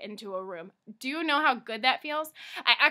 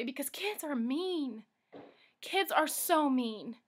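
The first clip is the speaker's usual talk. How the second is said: hurt and quiet; 6 dB quieter, much slower than usual. Real, not acted. Painful memory of school.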